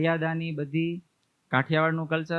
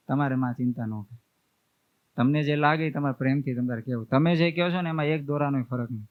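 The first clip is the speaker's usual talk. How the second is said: gentle, soft reassurance. Retold or imitated. Son quietly reassures his mother, gently. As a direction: soothe her softly so she feels respected. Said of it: "હળવે કરીને".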